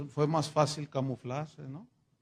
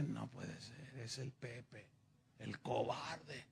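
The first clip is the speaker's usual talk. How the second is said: low, much softer, barely voiced disbelief; weak shocked murmur; 6 semitones lower, 17 dB quieter, slower than usual. Starving Pancho recognizes Pepe pulling the king's cart, faint and low. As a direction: gasp it out with no strength left.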